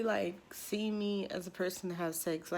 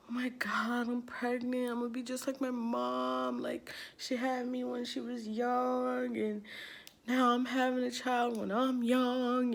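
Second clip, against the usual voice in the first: mildly plaintive, slightly raised lament; retold sadness; 4 semitones higher than usual. Girl fearing she'll be like her mom, retold sadness. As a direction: imitate lamenting your fate, with a touch of whine. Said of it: "so sad about it because I'm like".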